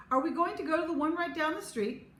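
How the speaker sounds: can hardly wait; excited asking. A narrator's reading.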